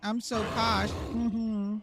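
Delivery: high, hummed snooty mm-hmms; mock posh hum, high and soft; posh Lucy impression. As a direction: play a prim posh lady humming approval. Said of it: "all I could think of is Lucy going".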